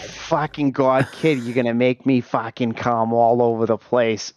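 slow, hammed-up wife impression; mock wife voice. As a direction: camp it up as the wife. Voicing wife mockingly.

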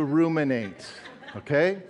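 laughing through the word ruminate; chuckling. Real, not acted. Pastor jokes about a Texas definition, chuckling. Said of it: "let me give you a Texas definition".

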